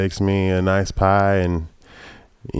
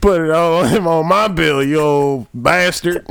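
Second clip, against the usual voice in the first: sexy Southern woman; 9 semitones higher, 5 dB louder, slower than usual. Retold or imitated. Tammy Lynn voiced.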